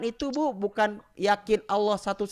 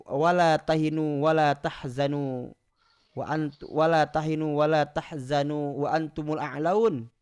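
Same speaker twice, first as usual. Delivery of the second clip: Quran recitation. Acted. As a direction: recite it like tilawah.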